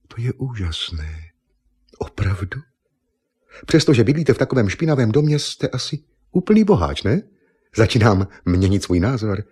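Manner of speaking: a beauty queen dazzled by riches; amazed Miss Nippon. Acted.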